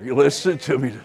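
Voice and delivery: a sudden shouted question. Real, not acted. Preacher demanding the congregation listen, shouting. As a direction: jolt them awake.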